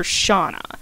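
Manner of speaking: Shauna, two syllables, sh then aw; the other Gaelic reading, Shauna; alternate correct pronunciation. Shown as a demonstration. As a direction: say Shauna as SHAW-nah, stress on the first syllable. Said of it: "the correct pronunciation of the name is".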